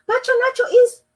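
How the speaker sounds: put-on boy wheezing at the carpenter; wheezed. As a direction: gasp it out after running. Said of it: "he wheezed".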